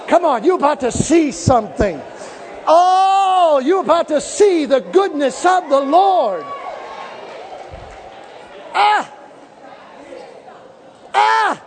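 high ecstatic preacher cries; preaching climax. Acted. Preacher at the climax before the church, crying out. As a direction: let it burst out at the peak.

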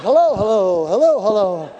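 loud, bright repeated hellos, half laughing; mimicking Grandma Crippen greeting everyone loudly; imitating Grandma's hello. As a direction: call out hello like an eager grandma waving. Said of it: "You're like".

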